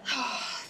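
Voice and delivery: long breath out to settle; slow steadying exhale; deep calming sigh. Real, not acted. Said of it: "Take a few deep breaths".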